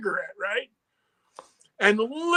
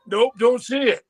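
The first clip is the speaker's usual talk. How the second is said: lightly voiced D-Vod; 2 semitones higher, 5 dB louder than usual.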